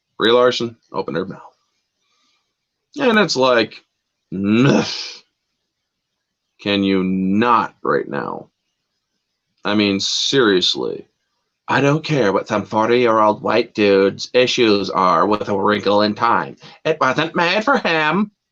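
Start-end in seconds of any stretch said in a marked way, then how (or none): 11.7-18.3 mocking, put-on caricature voice. Imitating an actress's remarks about a film: put-on SJW voice. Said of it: "that's my S J W voice".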